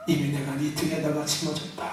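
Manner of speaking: a hint of a stern Lord, soft and low; low stern Jesus. Pastor voicing Jesus to a yawning member, low and stern. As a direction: hand the cross back with quiet authority.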